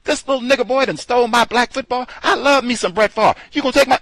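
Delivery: high mock outraged squeal; mad mock outrage. Mocking the angry fans over the football, high outraged squeal. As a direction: play the upset fan as a shrill cartoon. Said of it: "they got mad, like".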